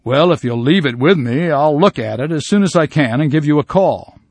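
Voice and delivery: a hint of a stalling shopkeeper; jeweler putting off a customer. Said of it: "The jeweler responds".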